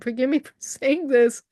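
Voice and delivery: a laugh breaking into "Forgive me for saying this"; amused retold apology; laughing through it. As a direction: giggle as you repeat the apology. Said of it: "but I said".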